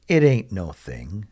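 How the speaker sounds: a hint of southern US accent; touch of southern US in the vowels; slight southern US accent. Shown as a demonstration. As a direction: lightly put on a Southern twang. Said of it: "used a little bit of an accent".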